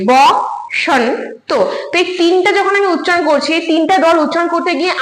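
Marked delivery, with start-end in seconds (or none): 0.1-1.6 "ব", pause, "সন", pause, "তো"; spaced-out teaching demo of "ব ... সন ... তো"; syllable by syllable. Shown as a demonstration. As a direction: pronounce "ব", "সন" and "তো" as three separate units. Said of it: "এই তিনটা উচ্চারণ করতে গিয়ে".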